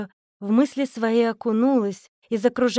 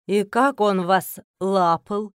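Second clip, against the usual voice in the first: slow, lightly lowered teasing echo; mocking mimic; 3 semitones lower, slower than usual. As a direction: mimic her words back with irony. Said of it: "С непередаваемой интонацией передразнил". (следователь передразнивает её медленно и насмешливо)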